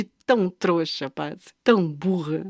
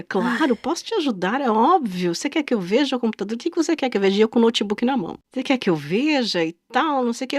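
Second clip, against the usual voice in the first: velvety seller voice; 3 semitones higher, faster than usual. Retold or imitated.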